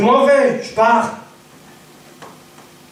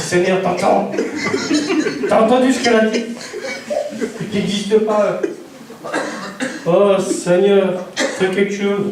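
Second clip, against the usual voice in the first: laughing mock prayer. Laughing prayer complaint to God.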